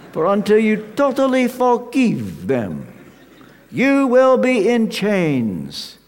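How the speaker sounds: a hint of Romanian accent, pressing each word. Old friend urging forgiveness, in a light Romanian accent. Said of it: "in his Romanian accent".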